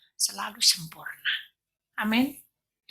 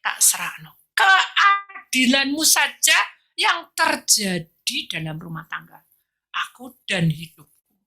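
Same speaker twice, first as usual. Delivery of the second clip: quiet prayer; slower than usual. Retold or imitated. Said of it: "Akhirnya dia bilang".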